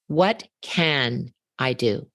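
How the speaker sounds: "What" weighted and drawn out, said slowly with a falling tune; unhurried question, leaning on "What"; slow, stressed what. Shown as a demonstration. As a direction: drag "What can I do?" out slowly, landing on "What". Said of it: "Until I put the emphasis in the right place".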